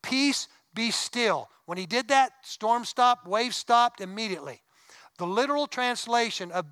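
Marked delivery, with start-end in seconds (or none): 0.0-1.5 mock yell. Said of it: "he yelled".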